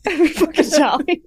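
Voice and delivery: laughing through the words. Real, not acted. Co-host laughing at the new mantra, laughing. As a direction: giggle it out.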